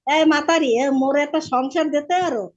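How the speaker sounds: a lightly voiced old Barisal beggar; an old man teasing the twin girls in thick Barisal dialect. A guest imitating an old beggar in mild Barisal dialect. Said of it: "ওই বরিশালের ভাষায় বলতেছে".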